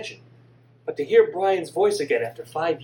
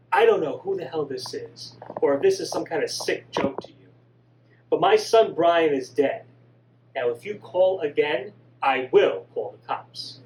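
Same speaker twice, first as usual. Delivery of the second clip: louder, fed-up warning to a prank caller; angry mother; 3 dB louder than usual. Acted. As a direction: threaten the caller, voice hardening.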